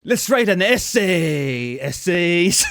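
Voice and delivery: drawn-out, hammed-up Hispanic accent; badly faked cholo-style Hispanic call. Shown as a demonstration. Showing a friend the impression, hammed-up Hispanic accent. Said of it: "a Hispanic person".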